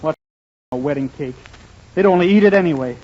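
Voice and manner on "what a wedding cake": low, soft grumble; muttering to himself. Acted. Alone after leaving the bakery, soft low mutter. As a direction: mutter it under your breath.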